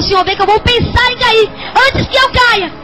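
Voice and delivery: preacher's impassioned plea; retold urgent plea. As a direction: beg the Lord, voice lifting. Retold desperate plea to God.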